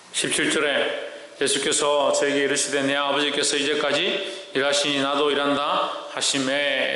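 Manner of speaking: low, even-toned Bible reading; scripture reading. Acted. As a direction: read the verse in a level, measured chant. Reads scripture to congregation.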